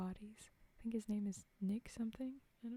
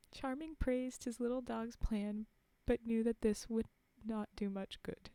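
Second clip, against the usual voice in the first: measured fairy-tale reading voice; clearly projected storytelling; story narration; 3 semitones higher, 4 dB louder than usual. A narrator's reading. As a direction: read it aloud like a storybook. Reads a fairy tale aloud.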